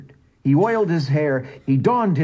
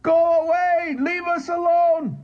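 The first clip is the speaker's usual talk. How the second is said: much higher pleading whine; whining piteously. A narrator's reading. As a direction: beg him to leave, pitifully. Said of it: "whining piteously".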